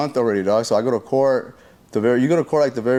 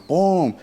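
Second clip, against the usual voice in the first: raised, falling boom; quick storytelling impact noise; imitated body slam; 7 semitones higher than usual. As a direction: mimic a heavy slam. Imitating being slammed down.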